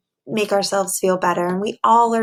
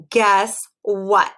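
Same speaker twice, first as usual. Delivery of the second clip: shouted; 4 dB louder than usual. Acted. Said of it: "Percy shouted".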